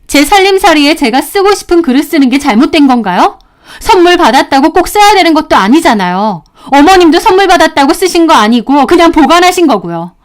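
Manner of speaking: aggrieved daughter-in-law making her case; indignant self-defence. Acted. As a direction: argue the point back firmly. Daughter-in-law argues back on phone.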